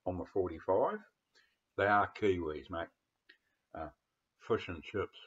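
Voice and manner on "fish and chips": fish and chips said with a Kiwi vowel, fish as foosh; Kiwi accent attempt. Shown as a demonstration. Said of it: "like we say".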